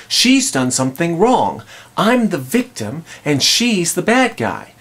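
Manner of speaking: mock wounded righteousness; aggrieved accusation. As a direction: lightly act out indignant blame. Voicing husband's accusing inner verdict.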